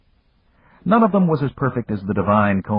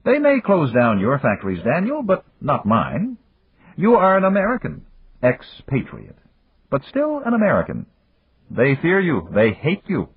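higher voice of the Japanese friend, a touch of sadness; sad magnate; 9 semitones higher than usual. Acted. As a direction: voice the old friend, gently regretful. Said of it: "His friend said sadly".

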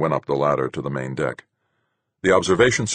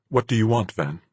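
tight; 7 semitones higher than usual. A narrator's reading. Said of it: "she asked tightly".

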